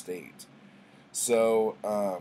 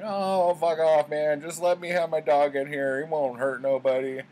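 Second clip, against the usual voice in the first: high, loud, rough guy telling him off; a loud put-on barfly voice; rowdy bar patron; 7 semitones higher, 8 dB louder than usual. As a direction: bark it back like a pissed-off drunk. Dog owner voiced, angry retort.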